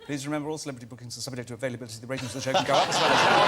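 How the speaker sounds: very fast advert small print; rapid-fire terms and conditions read; voiceover disclaimer. Shown as a demonstration. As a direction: rattle off the legal disclaimer. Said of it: "could you do one for Graham's show".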